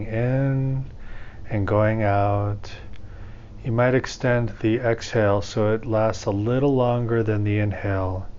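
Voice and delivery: calm, measured meditation guide with long pauses; guided meditation. Acted. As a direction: ease listeners into breathing, leaving room between phrases.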